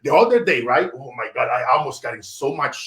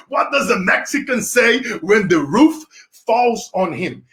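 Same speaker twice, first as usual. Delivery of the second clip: slow riddle; 5 semitones higher than usual. Shown as a demonstration. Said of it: "Whoever can guess that one".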